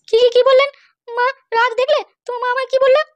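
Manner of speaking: shocked, stammering outrage at the insult. Acted. Bride, stung by her mother-in-law's words, shocked outrage. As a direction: stammer the question in disbelief.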